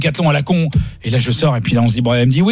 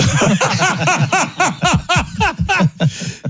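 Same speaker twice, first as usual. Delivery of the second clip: high burst of laughter. Real, not acted. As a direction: laugh hard at the story. (éclat de rire aigu)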